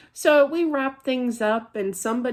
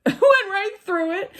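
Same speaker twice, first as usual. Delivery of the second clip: laughing; 11 semitones higher, 3 dB louder than usual. Real, not acted. Laughing at own ghost story.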